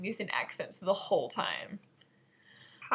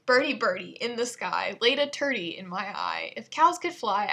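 suppressing giggles; 4 dB louder than usual. Shown as a demonstration. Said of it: "try really hard not to giggle while doing this".

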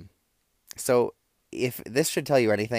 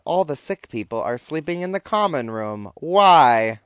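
higher-pitched retold complaint, exploding on the last word; exasperated complaint; 6 semitones higher, 9 dB louder than usual. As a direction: voice climbing high into a loud, drawn WHY. Acting out friend's exasperated text message.

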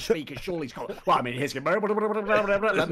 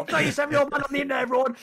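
mock announcement; 8 semitones higher, much faster than usual. Mocking an announcement by critics.

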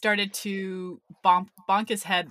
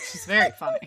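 much higher, laughing impression; mock gushing lady; much faster than usual. Friend quoting the laughing lady, high mock voice. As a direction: squeal it out through a laugh. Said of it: "She's like".

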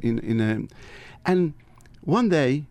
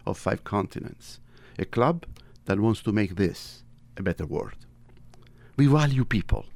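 prayer. Acted. Reads the Rotary invocation.

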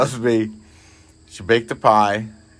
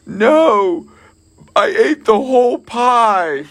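mock wife confession; 12 semitones higher, 5 dB louder, much slower than usual. Wife's confession retold, high voice.

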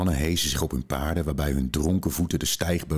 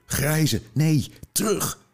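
a frantic scream, much higher and louder, slowing on terug; 13 semitones higher, 4 dB louder, much slower than usual. A narrator's reading. Veo calls her wolf back from the horse, frantic scream. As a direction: yell to call the wolf back. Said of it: "Ze schreeuwde".

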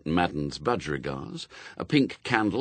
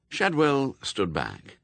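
plain reading voice

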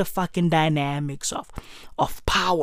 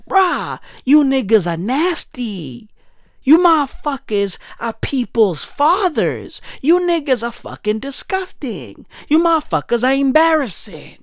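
mock disgusted scolding; 5 semitones higher than usual. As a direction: scold them in comic disgust. Acted scolding of Elon's fans.

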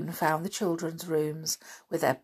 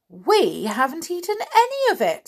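put-on child's voice; 11 semitones higher, 4 dB louder than usual. A narrator's reading. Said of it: "said Morris".

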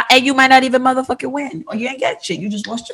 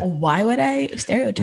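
put-on slow, lilting white girl voice; 5 dB quieter than usual. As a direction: play innocent in a white girl voice. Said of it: "Right there".

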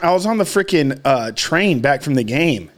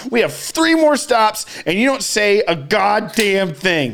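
imagined tirade; 4 semitones higher than usual. Retold or imitated. Imagined tirade at stranger on train.

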